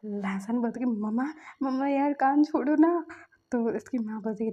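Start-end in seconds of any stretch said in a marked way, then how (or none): 0.9-3.1 louder whine on the last words; pained plea. Retold or imitated. Son pleading with mom to stop pulling, pained whine. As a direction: beg her to let go of the ear. Mother twisting his ear.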